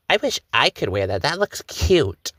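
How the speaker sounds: mock a teen envying girls' clothes, slowed down; younger self wishing. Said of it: "I was like".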